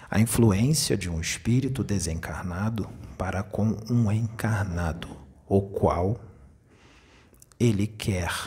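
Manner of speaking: slow, over-enunciated teaching delivery; speaking very slowly. Shown as a demonstration. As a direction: spell it out slowly for the viewers. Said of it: "Então nós vamos falar bem devagar".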